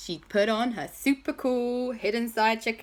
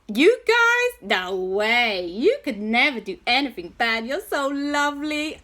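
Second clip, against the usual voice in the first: gushing disbelief; 4 semitones higher, 3 dB louder than usual. Acted. J B disbelieves kids did bad.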